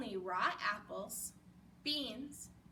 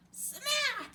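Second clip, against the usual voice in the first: loud punchy smack; 11 semitones higher, 5 dB louder than usual. Acted. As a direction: belt it out like a comic sound effect. Sound effect of the hit.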